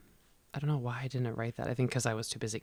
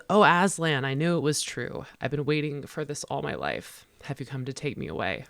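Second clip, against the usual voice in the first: put-on dying old woman's joy; 3 semitones higher, 4 dB louder than usual. Old woman greeting Aslan, lightly voiced rapture. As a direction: start in rapture and soften. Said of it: "She says".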